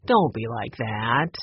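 pleading. A narrator's reading. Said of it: "Ray pleaded".

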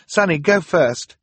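high loud command, a bit slow; urgent order. Acted. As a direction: push her sister to go now. Violet urging sister to escape.

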